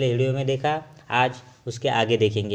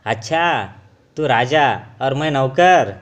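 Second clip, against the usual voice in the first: louder, indignant retort; a bit angry; 6 dB louder than usual. Acted. Iron scoffing at gold, mildly angry and louder. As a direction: bristle at being called a servant. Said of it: "लोहा थोड़ा सा गुस्सा हो गया".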